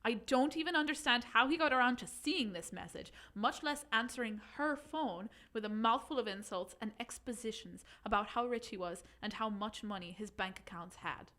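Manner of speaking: put-on reading in a light Irish accent; a gentle Irish lilt throughout. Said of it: "do you think I could do it in Irish?".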